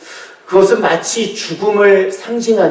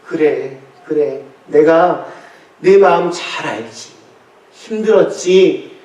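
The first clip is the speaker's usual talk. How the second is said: tender comfort. Acted. Lord comforting the weeping believer.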